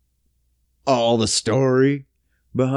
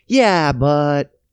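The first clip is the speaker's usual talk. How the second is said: slow, drawn-out smug gloating; slow mock official gloating; much slower than usual. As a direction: gloat slowly like a greedy official. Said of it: "And they're like".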